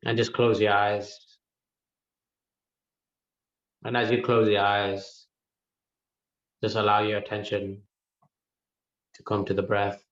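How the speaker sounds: calm, spaced-out meditation instructions; unhurried meditation guide, leaving room to breathe; guided meditation. Real, not acted. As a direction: guide them gently inward, pausing between phrases. Begins guiding the meditation.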